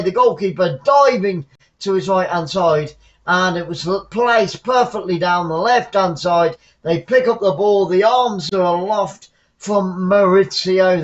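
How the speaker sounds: emphatic football goal recap, stretching key words; excited play-by-play. Real, not acted. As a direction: sell the equaliser to viewers, punching the big words.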